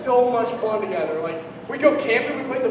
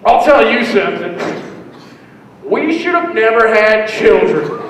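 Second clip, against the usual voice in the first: put-on 1 drunk dad; 6 dB louder, slower than usual. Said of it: "my dad's just like".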